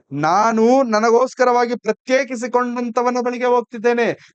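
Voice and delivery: voicing Christ's growing joy as he approaches; joyful proclamation. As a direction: glad announcement, rising as it goes. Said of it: "ಎಷ್ಟು ಸಂತೋಷದಿಂದ ಬರ್ತಾರೆ".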